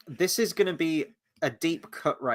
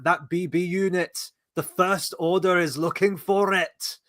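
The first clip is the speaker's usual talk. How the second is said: mock Star Wars villain; 3 semitones higher than usual. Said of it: "the guy in episode seven who's like".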